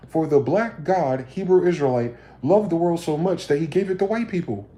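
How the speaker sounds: mock scripture reading.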